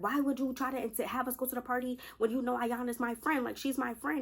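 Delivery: mock indignant questioning; retold telling-off. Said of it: "Kelly's going off on her".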